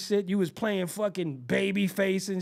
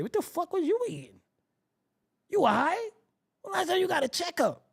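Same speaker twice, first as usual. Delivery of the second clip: mock concern; 9 semitones higher than usual. Mock concern about smell.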